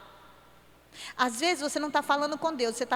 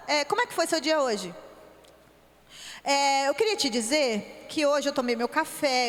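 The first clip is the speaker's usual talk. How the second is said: talking to God like a friend. Shown as a demonstration. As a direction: run through a shopping list of requests, chatty and hurried. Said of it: "de falar e conversar é assim". (tom de bate-papo apressado, pedindo tudo)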